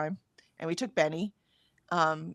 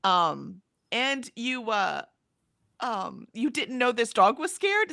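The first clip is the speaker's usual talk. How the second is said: inner rant; 2 semitones higher than usual. Retold or imitated. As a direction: let the silent fury spill out. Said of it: "in my head, I'm like".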